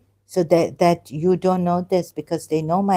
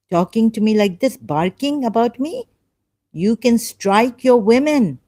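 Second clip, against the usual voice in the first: raised pitch, heated rebuke; indignant; 4 semitones higher than usual. Real, not acted. Speaker answers hostile commenters barking about her, indignant. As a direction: throw the accusation back at them indignantly.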